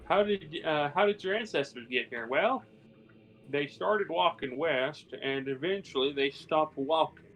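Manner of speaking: lightly done slow cowboy drawl on the second half. Retold or imitated. Telling the table how settlers came west, in a mild cowboy drawl. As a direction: spin the settlers' tale like an old cowboy. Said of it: "That's all by a cowboy".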